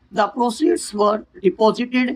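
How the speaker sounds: very slow, word by word; teacher reading example slowly. Shown as a demonstration. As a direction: dictate the sentence slowly. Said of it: "example आपको बता रहे हैं".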